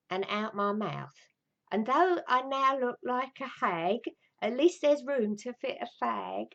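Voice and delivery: slow, measured comic verse reading; poem recitation. Acted. Woman shares her poem about a lost tooth, recited. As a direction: declaim a homemade rhyme with mock gravity.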